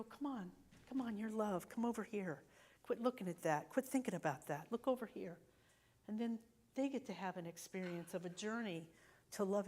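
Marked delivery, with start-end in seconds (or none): 0.0-5.4 soft, gentle coaxing of a friend. Retold or imitated. Speaker coaxing a wandering mind back to love, softly. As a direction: call them over softly, lovingly. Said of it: "I could go".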